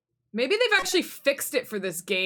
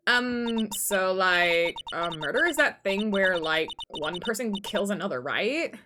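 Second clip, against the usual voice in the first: put-on ditzy Valley Girl with questioning ends; lightly hammed-up Valley Girl accent; slower than usual. Girl asks lawyer what murder is, Valley Girl accent. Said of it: "hear my Valley Girl accent".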